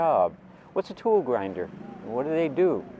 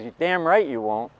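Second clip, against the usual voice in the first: stern father; 3 semitones higher than usual. Retold or imitated. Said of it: "Like that, he talked to me".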